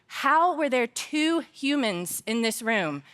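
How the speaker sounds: retold indignant scolding, stressed and rising; angry scolding. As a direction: scold them in mock outrage. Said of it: "I got so angry".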